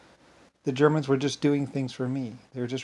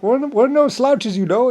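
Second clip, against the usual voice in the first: mock proud worker, much higher and louder, slow; proud Irish worker; 11 semitones higher, 10 dB louder, slower than usual. Irish shipyard workers telling the boss they're capable, mock proud. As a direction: ham up a worker's boast. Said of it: "would be like".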